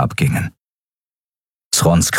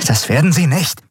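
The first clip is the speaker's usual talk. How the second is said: tense, higher-pitched retort; tense, grinding; 9 semitones higher than usual. A narrator's reading. Pilot contradicts her frightened crew, tense and grinding. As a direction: force it out through gritted teeth. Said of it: "knirschte Endriel".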